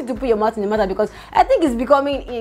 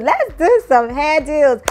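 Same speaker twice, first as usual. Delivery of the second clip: higher, louder, slow singsong on "Let's do some hair deals"; drawn-out singsong pitch; 6 semitones higher, 4 dB louder, slower than usual. Shown as a demonstration. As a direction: stretch "Let's" high and sing the deal out.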